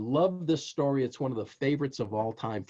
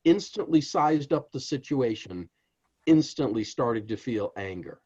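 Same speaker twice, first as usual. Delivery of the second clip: ordinary talk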